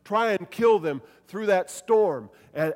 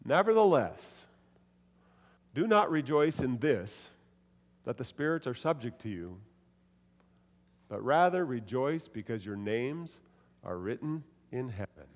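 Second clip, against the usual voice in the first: serious turn; 4 semitones lower, 3 dB quieter than usual. Shown as a demonstration. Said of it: "a change of his tone of voice".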